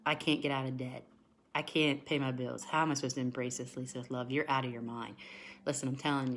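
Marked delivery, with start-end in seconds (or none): 0.0-4.3 low, deflated voice of a worried viewer; mimicking a skeptical, discouraged viewer; doubting viewer. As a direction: sound hopeless and doubtful. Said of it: "because you're thinking".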